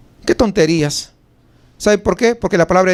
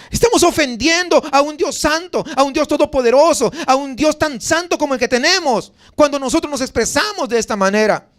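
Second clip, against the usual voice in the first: higher-pitched, insistent preaching; indignant rebuke; 5 semitones higher than usual. Real, not acted. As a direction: drive each phrase home in reproach. Preacher rebukes greed as offending God.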